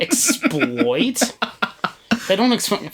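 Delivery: high incredulous "exploit?"; mock incredulous. Real, not acted.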